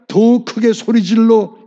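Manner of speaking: slow, weighty stress on 더 크게; drawn-out emphasis. Acted. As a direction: stretch 더 out long and slow. Reading the verse about shouting louder.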